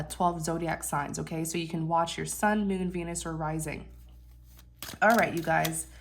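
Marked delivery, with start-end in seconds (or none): 5.0-5.9 stuffy blocked nose; nasal voice. Real, not acted. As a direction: speak through a nasal cold. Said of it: "Please excuse my nasally voice".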